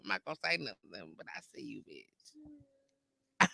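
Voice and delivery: hushed, low, sly; a sneaky whisper full of mischief; sly whispered friend. Retold or imitated. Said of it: "When your friends show up like".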